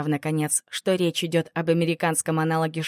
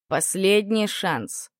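slow, detached warning; last chance, said coldly; indifferent warning; much slower than usual. Acted. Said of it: "равнодушно предупредил Джейсон".

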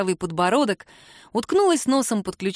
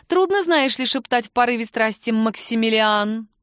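teasing Kira; 2 semitones higher than usual. Acted. Kira teasing about his name.

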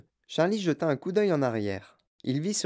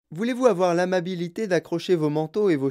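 high, lightly projected host voice; Wonka announcing; 4 semitones higher than usual. Acted. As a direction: announce politely to the group over noise. Voices host addressing the group.

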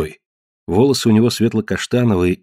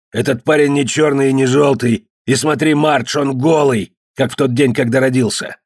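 gruff hostile cave man, raised; rough beast-man voice; 5 semitones higher than usual. Acted. Ned to his family, suspicious of the stranger, gruff voice. Ned's character voice.

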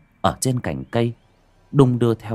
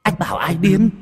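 higher, rising on điên; eerie ghost menace; 8 semitones higher than usual. A narrator's reading. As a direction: ask Anh bảo ai điên with a rising, threatening điên. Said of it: "âm thanh ghê rợn".

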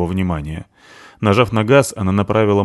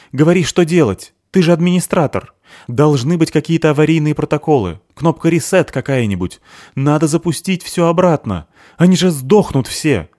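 urgent demands; 7 semitones higher, 3 dB louder than usual. Acted. Merit urgently demands instructions.

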